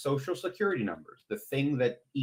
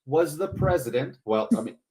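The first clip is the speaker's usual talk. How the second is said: shouting match; 3 semitones higher, 4 dB louder than usual. Real, not acted. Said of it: "Stop yelling at each other".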